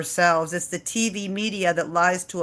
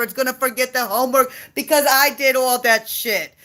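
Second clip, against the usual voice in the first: fed-up rant; 3 semitones higher than usual. Retold or imitated. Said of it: "I say".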